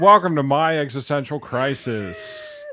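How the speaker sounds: slow, announcing the show title; host intro. Pretend. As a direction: open the show with flair. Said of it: "podcast intro take".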